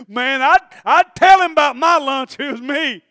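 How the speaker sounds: put-on high, loud excited kid; eager little boy. Boy wanting Jesus to hear of his lunch, eager shout. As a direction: pipe up loudly like a boy bursting to tell. Acts the boy behind Andrew.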